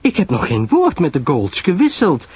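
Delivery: high, dignified denial. A narrator's reading. Pamela defends herself to Sarah, dignified. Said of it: "zei Miss Lyle waardig".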